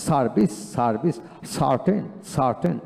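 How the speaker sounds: "সার্ভিস" and "সার্টেন" with an open aa. Shown as a demonstration. Teacher drills "সার্ভিস", "সার্টেন" with aa in the first syllable. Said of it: "এইভাবে উচ্চারিত হবে".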